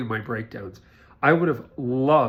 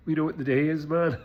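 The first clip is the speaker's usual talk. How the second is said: put-on light Irish accent; 3 semitones higher than usual. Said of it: "I only got a little bit of Irish in there".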